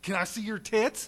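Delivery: mock question through a laugh; laughing quote. Speaker joking to the audience about a rude question, laughing. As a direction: deliver the punchline half-laughing. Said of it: "joke quote".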